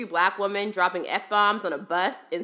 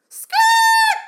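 shout; 10 dB louder than usual. Acted. Outburst at the man on the bus.

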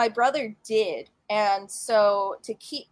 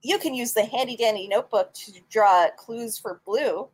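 put-on old radio announcer; 2 semitones higher than usual. Reads a mock sponsor ad.

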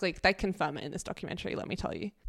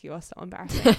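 laughing tease; 7 dB louder, faster than usual. Retold or imitated. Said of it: "and he was like".

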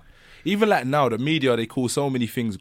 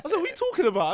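retold incredulous reply; faster than usual. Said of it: "I said".

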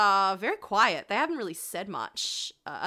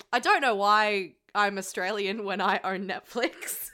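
laughing. Real, not acted.

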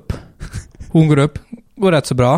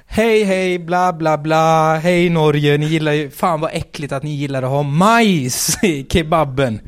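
mock stage self; 5 semitones higher than usual. Comedian retelling his set to the crowd, high and hammed. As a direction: imitate his own desperate stage bit. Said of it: "bara så här".

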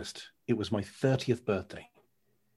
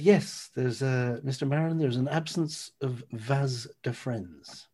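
doctor; slower than usual. Retold or imitated. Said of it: "He said".

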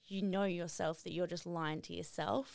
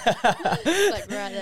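laughing hard; 16 dB louder, much slower than usual. Real, not acted. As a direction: burst out laughing while talking. Laughing at the lump joke.

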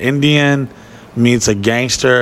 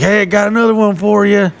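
cheery mayor; 9 semitones higher, faster than usual. Retold or imitated. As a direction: call out like a jolly small-town mayor. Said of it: "he's like".

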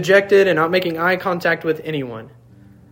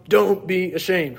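"Don't" hit hard and slow, falling on "ashamed"; stress on DON'T; 2 semitones higher than usual. Shown as a demonstration. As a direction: lean on the word "Don't". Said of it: "they place the emphasis on".

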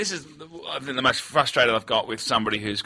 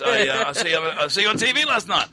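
put-on higher-pitched Asian-accented driver; imitated Asian accent; 5 semitones higher than usual. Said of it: "Oh, I do the accent continually".

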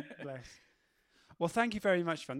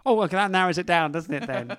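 sarcastic; 11 dB louder than usual. Real, not acted. Sarcastic reply to quiz hint.

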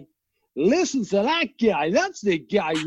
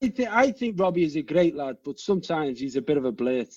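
put-on Scottish accent; 4 semitones lower, faster than usual. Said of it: "That sounded Scottish".

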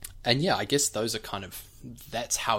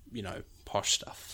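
heightened RP; 6 dB quieter than usual. Shown as a demonstration. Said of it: "pushed it all the way down".

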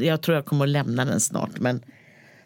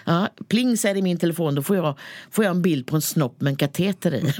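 put-on chatty old lady voice; a hint of the old hag; old woman; 3 semitones higher than usual. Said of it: "den gamla kärringen".

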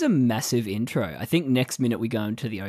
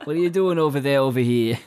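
imitating Jonah; 3 semitones higher, 5 dB louder than usual. Joining in, mimicking Jonah loudly. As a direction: ham up the friend's question. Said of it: "Imitating Jonah".

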